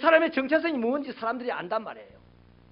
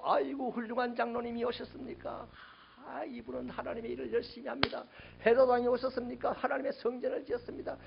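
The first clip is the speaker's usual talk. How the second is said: soft, ingratiating mock welcome; mock flattery; 6 dB quieter than usual. What John never said to Pharisees, mock flattering. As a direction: fawn quietly, as if greeting important guests. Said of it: "요런 거 안 했다 이 말이에요".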